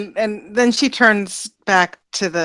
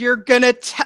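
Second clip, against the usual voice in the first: put-on scolding voice, pitched higher; 5 semitones higher than usual. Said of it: "mom talking to her errant child".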